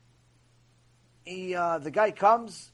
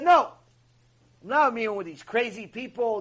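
flatly refuse, punching the first word; mock-indignant refusal; emphatic refusal; 4 dB louder than usual. Acted refusal by retold brother.

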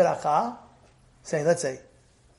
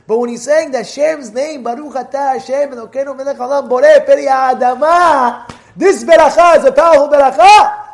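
higher and louder, swelling with fervor; fervent emphasis; 6 semitones higher, 12 dB louder than usual. Real, not acted. Rabbi stirs the class about Hashem's name. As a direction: proclaim the beracha's power with rising force.

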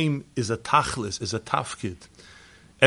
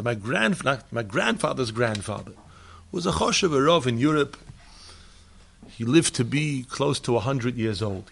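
ordinary talk

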